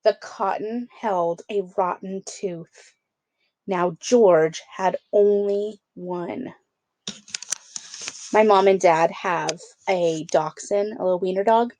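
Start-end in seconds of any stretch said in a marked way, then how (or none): 0.0-6.5 lively storybook read-aloud; children's book narration. A narrator's reading. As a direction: read it like bedtime story time. Reads picture book to kids.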